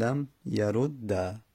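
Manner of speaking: لم یرد drawn out as "lam yarudd-a"; very slow لم یرد, holding the double d into an a; fatha ending. Shown as a demonstration. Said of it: "یعنی بهتره فتحه بدیم".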